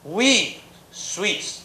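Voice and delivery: slow, weighty English boast; proud Swiss. Retold or imitated. Lecturer quoting his Swiss friend on the hill above Germany, slow and proud. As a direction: savour each word with pride. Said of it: "我一辈子忘不掉".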